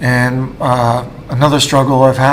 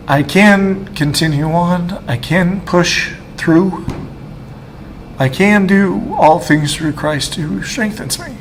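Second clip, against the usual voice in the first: slow, tearful, voice climbing higher; fighting tears while quoting the verse he holds onto; choked up; 5 semitones higher, slower than usual. Real, not acted. Testifying to the camera, slow and tearful, near tears. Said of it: "I'm emotional".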